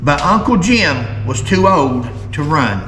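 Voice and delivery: deliberate, emphatic story reading; reading aloud. Acted. Host reads an old feud story to viewers, deliberate emphatic reading. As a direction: read the old account in weighted phrases.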